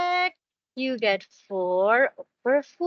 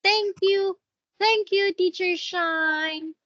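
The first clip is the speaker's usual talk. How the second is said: put-on modelling the child's answer; 5 semitones higher than usual. Shown as a demonstration. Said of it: "What will you say?".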